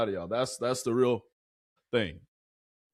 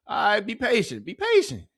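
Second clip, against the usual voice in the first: mock soothing; 9 semitones higher than usual. Real, not acted. Teasing chat while they wait.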